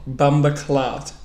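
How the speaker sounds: bumba clot spelled out slowly, slight Jamaican accent; slow sounding out. Shown as a demonstration. Learner repeats teacher's word, slow careful Jamaican accent. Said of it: "gotta sound it out".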